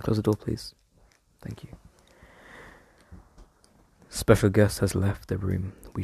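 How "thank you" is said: whisper. Real, not acted. Whispering while mum leaves.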